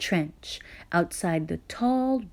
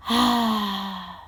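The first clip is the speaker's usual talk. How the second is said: sigh. Acted. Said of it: "sighed Mister McGreely".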